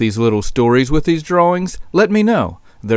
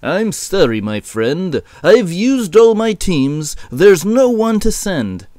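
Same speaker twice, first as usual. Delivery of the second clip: lightly voiced shepherd, mostly higher; a higher-pitched, apologetic refusal; apologetic shepherd boss; 6 semitones higher, slower than usual. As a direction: turn down a caller with a hint of apology. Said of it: "The shepherd responded".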